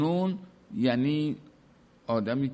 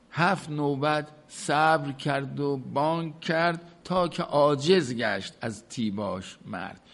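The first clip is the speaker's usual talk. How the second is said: poem recitation; 2 semitones higher than usual. Acted. Reciting the couplet again.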